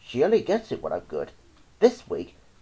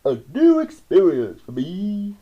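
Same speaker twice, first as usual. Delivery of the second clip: loud, raised voice of a delighted dentist; gleeful cry; 6 semitones higher, 7 dB louder than usual. A narrator's reading. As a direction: crow with villainous relish. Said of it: "he cried with obvious glee".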